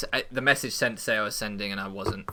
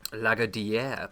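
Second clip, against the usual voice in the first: put-on light French accent on the name; much slower than usual. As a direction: try the name as a French surname. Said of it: "That's an excellent French accent".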